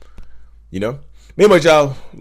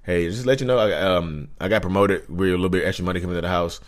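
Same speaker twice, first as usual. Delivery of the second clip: flat, deflated, mildly low-key report; sharing a promotion with a toxic partner, mild monotone; 5 semitones lower, 3 dB quieter than usual. Pretend. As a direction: say the good news as if it's nothing. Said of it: "in a monotone ass voice".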